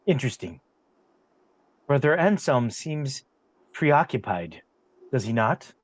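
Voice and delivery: low-pitched, deliberate in-character musing; lightly voiced character. Game master as a character remarking on Brother Anselm, lightly voiced and low.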